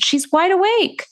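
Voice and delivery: retold excitement. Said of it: "I said".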